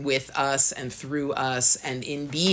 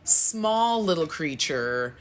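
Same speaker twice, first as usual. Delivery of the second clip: slow, higher, half laughing, half crying; laugh-crying tenderly; 5 semitones higher, much slower than usual. Retold or imitated. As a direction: marvel tenderly through laughter at something small. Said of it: "I started laughing and crying with God".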